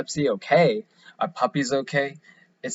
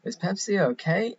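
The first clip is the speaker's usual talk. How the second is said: higher still, rising as if unsure; mock-conflicted Steve Carell asking again; imitating Carell's puzzled rising question; 8 semitones higher than usual. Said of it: "and he's like".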